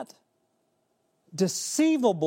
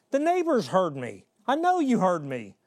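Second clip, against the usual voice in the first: louder, exasperated scolding; scolding the kids; 3 semitones higher, 3 dB louder than usual. Retold or imitated. Father scolding kids who ignored him, exasperated. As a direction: let the frustration out, mildly. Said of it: "And I'm like".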